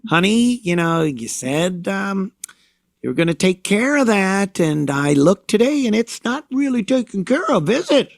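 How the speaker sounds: sugary mock-sweet nag, pitch climbing high on the last words; mock nagging wife. Mimicking a wife nagging her husband at home, sugary and condescending. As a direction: needle him sweetly and rise into the question.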